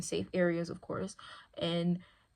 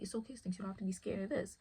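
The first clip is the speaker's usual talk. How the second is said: soothing dog; 7 dB quieter, faster than usual. Retold or imitated. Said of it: "I'm like".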